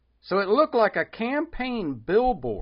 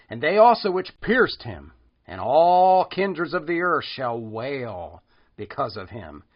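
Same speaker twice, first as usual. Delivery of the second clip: louder, solemn preaching of Bible verses; scripture reading; 3 dB louder than usual. Acted.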